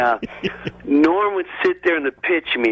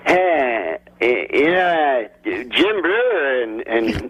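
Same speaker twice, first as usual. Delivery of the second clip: slow, hesitant Norm impression; imitating Norm. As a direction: drag it out lazily, stumbling over names. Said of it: "he'd go".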